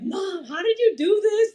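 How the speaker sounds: high, crying-laughing plea to mom; half-laughing, half-sobbing call for help; retold tearful plea. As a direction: mock-desperate crying to mom on the phone. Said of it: "calling my mom crying".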